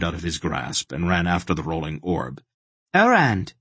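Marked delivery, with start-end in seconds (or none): 2.9-3.5 high, loud gleeful shout of the word; triumphant cry. A narrator's reading. The little boy catches the rolling orb, triumphant. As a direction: crow it as you snatch the prize. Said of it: "He laughed triumphantly".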